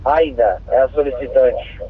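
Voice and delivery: crackly two-way radio transmission; squelchy handheld radio; police radio. Real, not acted. Dispatcher gives address over radio.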